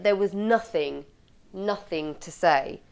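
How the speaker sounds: "nothing" set apart and repeated after a pause; slow down and weight the word "nothing"; stress on NOTHING. Shown as a demonstration. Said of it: "draws the audience's attention to the fact".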